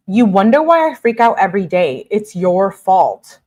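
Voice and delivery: mildly angry blaming, slowing on the last phrase; mock pissed off. Girlfriend blaming him for her freakouts, mock angry. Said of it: "she's pissed".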